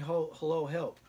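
calling out high and loud, a lightly voiced lost old man; confused old patient. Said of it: "He's repeating himself constantly".

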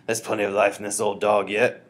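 loud, spirited insistence; mildly exclaimed; crying out. A narrator's reading. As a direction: insist with plenty of volume. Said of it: "she cried".

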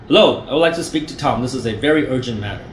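quick, matter-of-fact caller voice; brisk demo line. Shown as a demonstration. Salesman demonstrating the opener, brisk and quick. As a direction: rattle it off like it's routine. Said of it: "I will start with that".

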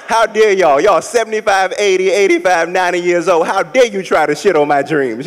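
playfully outraged scolding; imitating offended pride; mock outrage.

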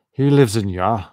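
loud attempt at a Scottish accent gone astray; botched Scottish accent. Shown as a demonstration. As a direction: try Scottish and land in the wrong region. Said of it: "Gotta get the accent in there".

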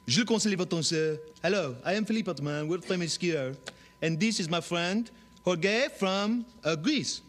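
fast, loud, high fake foreign accent, ending in a shout; mock European accent. Showing off dialects, hammed-up fake European skier. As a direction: ham a jet-set European skier. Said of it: "any dialect".

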